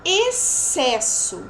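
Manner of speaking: EXCESSO slow, with a long S and a break in it; syllable by syllable. Shown as a demonstration. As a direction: split EXCESSO, stretching the first syllable. Teacher sounds out example word. (EXCESSO devagar, separando as sílabas)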